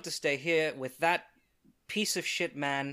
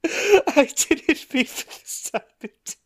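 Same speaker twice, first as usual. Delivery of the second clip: hammed-up grief; 12 semitones higher, 5 dB louder than usual. Mourning dead crab companion.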